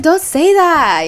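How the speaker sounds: high, loud, drawn-out protest; playful scolding. Retold or imitated. Retelling how she reacted to a guy's remark, squealed protest. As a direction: whine it loudly, stretching the words. Acted squeamish retort in anecdote.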